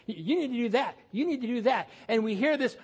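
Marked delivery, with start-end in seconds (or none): 0.1-1.0 mock nagging. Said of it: "he's trying to tell me to do". 1.1-1.9 mock nagging, firmer. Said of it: "he's trying to tell me to do".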